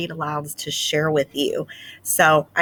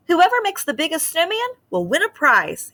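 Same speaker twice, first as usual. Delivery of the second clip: higher, announcing mayor voice; mayor declaring; 11 semitones higher than usual. Acted. Mayor announcing the snowman contest to the mice, declaring. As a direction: proclaim it to the whole town. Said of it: "he declared".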